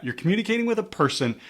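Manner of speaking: lifts the word person high and leans on it; stress on person. Shown as a demonstration. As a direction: press hard on person, the point of the lesson. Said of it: "you notice I'm emphasizing this word person".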